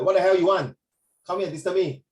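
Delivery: playfully put-on annoyance at a visitor; mock annoyed greeting. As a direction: act out a rude answer at the door. Acts out a rude door greeting.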